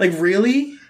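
mock serious. Teasing mock-serious question.

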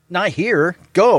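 mock curt order, high and loud; imitated rude dismissal. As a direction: shoo them off rudely, half in play. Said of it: "he doesn't say that nicely".

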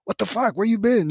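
high, shocked welcome for a long-lost relative; surprised greeting. Retold or imitated. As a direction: greet him like a ghost just walked in. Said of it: "And they'd look at me like".

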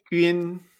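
"Yun" as ü-in, level; same intonation. Shown as a demonstration. Teacher showing the tone to learners, level "Yun". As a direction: say "Yun" held on one note. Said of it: "Esa entonación".

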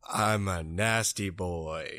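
put-on low, slow nasty boy line. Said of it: "Say something nasty with that sick voice of yours".

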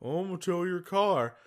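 put-on lightly done Brooklyn accent tow truck driver; a hint of Brooklyn tough guy. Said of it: "best Brooklyn accent is like".

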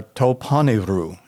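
toponevru said carefully as the Greek words tou ponerou; Greek pronunciation. Shown as a demonstration. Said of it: "The Greek words used in verse thirty-nine for the evil one are".

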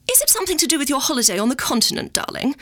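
a hint of a fussy mother prying; imitating Mummy. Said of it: "Mummy, I need your advice".

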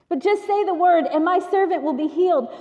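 "just" pushed up high and loud; earnest plea. Acted. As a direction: plead for the servant with rising urgency. Pleading centurion quote.

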